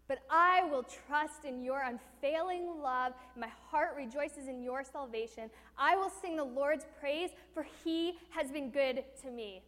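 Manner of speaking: slow, firm declaration of trust; resolute declaration. Acted. Preacher proclaiming David's trust, slow and firm. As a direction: proclaim it with conviction. Triumphant verse five.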